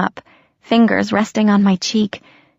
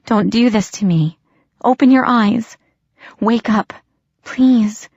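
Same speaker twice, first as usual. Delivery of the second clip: desperate pleading; 4 semitones higher than usual. Acted. Pleading with limp body.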